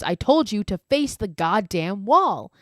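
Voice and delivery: mild mock yell, not full volume; half-hearted imitation of an angry scream; retold scream. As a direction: act out a scream, held back. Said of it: "and May screams".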